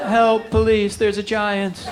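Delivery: high, panicky voice of a salesman in shock; freaking out salesman. Retold or imitated. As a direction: squeal it like a clerk who's seen a giant. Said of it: "the salesman was freaking out".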